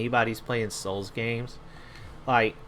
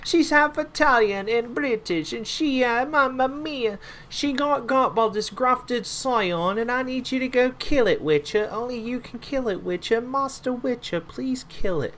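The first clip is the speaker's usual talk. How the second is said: hammed-up Italian-British NPC voice, much higher and louder; a pleading quest-giver in a silly Italian-British accent, pitched way up; comic half Italian, half British villager; 12 semitones higher, 4 dB louder than usual. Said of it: "I made him half Italian and British".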